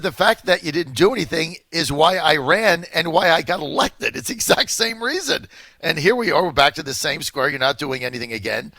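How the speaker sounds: emphatic retold rebuke. Heatedly quoting the president's attack lines.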